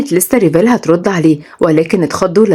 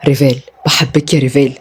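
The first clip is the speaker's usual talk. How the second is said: lower, tender I love you; 4 semitones lower than usual. Acted. Rayan with wink.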